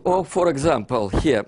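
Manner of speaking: normal talking voice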